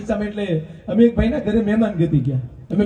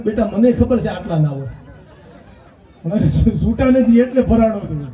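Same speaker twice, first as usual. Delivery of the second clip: laughing reply; 4 dB louder than usual. Retold or imitated. Teller's reply to boy, laughing.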